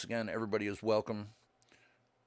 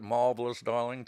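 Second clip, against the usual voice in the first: through gritted teeth; 6 dB louder than usual. Pretend. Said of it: "Talk through your teeth".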